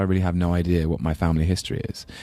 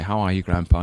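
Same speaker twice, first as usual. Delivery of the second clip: put-on polite, very English London accent; a hint of prim London English in the accent. Grandson phoning his Glaswegian grandpa on Sundays, English London accent. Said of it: "with my very English London accent".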